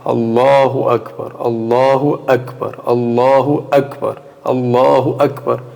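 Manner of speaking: Allahu Akbar repeated slowly and evenly, drill-like; slow pronunciation practice. Shown as a demonstration. Teacher shows students how to practise by repeating, slow drill. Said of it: "se eu ficar co-, pronunciando".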